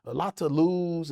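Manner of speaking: low, soft retold counsel; cool, calm advice. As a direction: play the cool peacemaker, voice down. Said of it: "he was just being cool".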